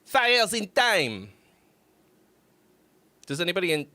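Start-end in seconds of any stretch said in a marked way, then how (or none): 0.0-1.3 announcing. Real, not acted. Announcing band before reading their note.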